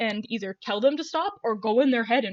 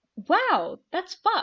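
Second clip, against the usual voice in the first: smiling while speaking, slightly higher pitch; 8 semitones higher than usual. Voicing a character reacting to bad news: said with a big smile. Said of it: "and she says it with a big smile".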